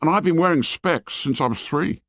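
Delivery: high schoolboy voice, mildly proud; boasting fat boy. Acted. Fat boy showing off to Ralph, high mild boast. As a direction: boast a little, pitched high.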